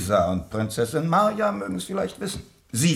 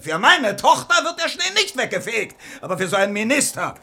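loud, fast indignant rant; angry outburst; 5 semitones higher, 6 dB louder, faster than usual. Acted. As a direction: tear into the servant. Prince rages at his servant.

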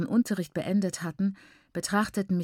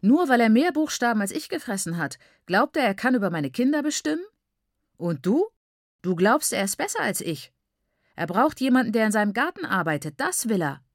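father bursts out, louder and higher; flaring up; 5 semitones higher, 5 dB louder than usual. A narrator's reading. Father flaring at daughter over the teacher, loud and angry. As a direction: let the anger blow up at the daughter. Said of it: "brauste er auf".

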